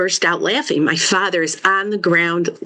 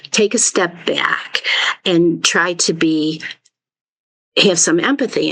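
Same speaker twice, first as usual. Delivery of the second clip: whispered advice. Real, not acted. Speaker's own advice to listener.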